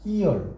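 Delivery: "이얼" split into 이 and 얼; two separate vowels. Shown as a demonstration. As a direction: keep both vowels of "이얼" distinct. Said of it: "떨어져서 발음이 된단 말이에요". ("이얼"의 두 모음을 따로 발음)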